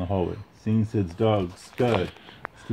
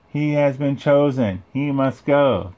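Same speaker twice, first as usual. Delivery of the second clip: solemn alien toys; 6 semitones higher, slower than usual. Acted. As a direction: intone it like a prophecy. Aliens speak in chorus.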